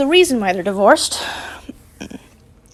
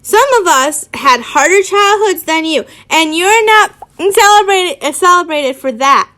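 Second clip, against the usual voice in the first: raised, irritated scolding; irritated shout; 4 semitones higher, 4 dB louder than usual. Acted. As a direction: argue back with mounting irritation. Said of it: "Harry shouted, irritated".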